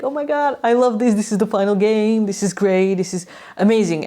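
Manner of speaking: gush, thrilled to be at the game; excited foreign fan. Acted. Canadian fan at the final game, gushing excitement. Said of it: "Can you imagine, like, a Canadian".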